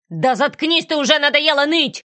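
high, loud furious snap; villain snapping at the whining girl, loud and angry; angry bark. Acted. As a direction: bark at the crying child. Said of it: "зло рявкнул".

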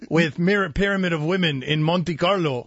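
lightly done mock Russian playboy bragging; a hint of a hammed-up Russian accent; bad Russian accent. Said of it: "In a bad accent".

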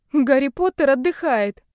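high, loud delighted cry; excited exclaim. Acted. Captive cheers the witch on her broom, high loud cheer.

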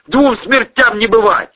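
loud, high battle cry; reckless shout. A narrator's reading. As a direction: shout it as you take the plunge. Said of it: "крикнул Юрик".

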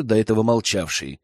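ordinary delivery

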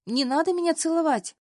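panicked high shout of «надо»; loud protest. A narrator's reading. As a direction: cry out «Не надо меня целовать!» in alarm.

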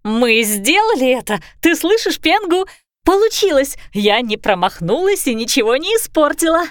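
put-on an excited dragon girl who didn't mess up; excited young dragon. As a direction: crow about a victory to a friend.

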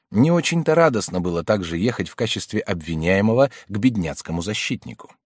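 ordinary delivery, nothing marked

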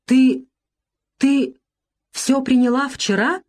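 сорванный испуганный возглас, выше и громче; почти крик от ужаса; дикий голос. A narrator's reading. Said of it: "спросил я диким голосом". (диким голосом)

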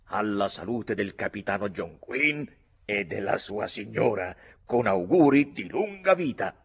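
loud, rising celebratory toast; hearty toast. A narrator's reading. Uncle toasts the captain and his lady, hearty toast. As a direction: propose a toast to the whole table.

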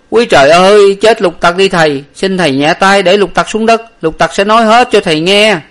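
high, loud whimpering begging; whimpering plea. A narrator's reading. Servant begs his master to put him down, whimpering. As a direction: beg for mercy on the verge of tears. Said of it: "Lục Tặc mếu máo mà rằng".

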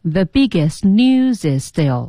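slow "biggest news is still", words run together; careful, drawn-out "biggest news is still"; linked practice reading. Shown as a demonstration. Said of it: "按照这个实际音标的这个方式练习".

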